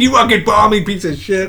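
a hint of a jeering heckler; lightly voiced crowd heckle; heckler's insult.

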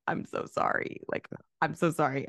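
hushed, lightly mimicked sorrow; tearful apology, imitated. Retelling Will's apology to the guests, mock tearful. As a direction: apologize softly, as if crying. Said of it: "he's crying".

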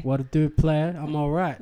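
stuffy, nasal voice; a blocked nose. Real, not acted. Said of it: "I sound a little nasally".

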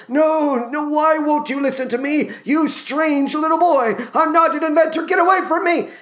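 put-on cranky old inventor shooing a boy away, high-pitched; high, exasperated, hammed-up refusal; Geronicus. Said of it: "Geronicus keeps saying to him".

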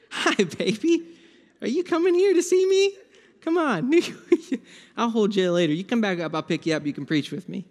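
high, playful welcoming voice; tender greeting. Pretend. Jesus calling his child out to him, tender and high. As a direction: coo it like greeting a little child.

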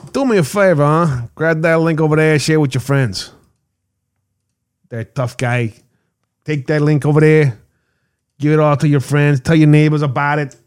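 hammed-up New Jersey accent; bad Jersey accent. Host urging Jersey listeners to share a link, bad Jersey accent. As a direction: lay on a rough attempt at a Jersey accent. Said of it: "In my worst Jersey accent".

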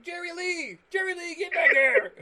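high, loud mock scolding yell. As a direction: yell it like calling back a runaway dog. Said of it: "starts yelling at these animals like".

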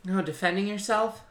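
quiet, lightly voiced old lady; imitated disapproving old lady. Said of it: "And the lady goes".

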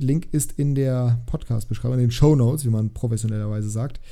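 tired voice starting to fail; voice giving out. Real, not acted. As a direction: voice wearing thin and giving out. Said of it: "Meine Stimme versagt schon langsam".

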